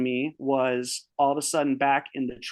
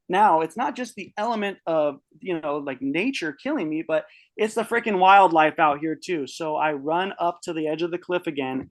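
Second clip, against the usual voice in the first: normal talking voice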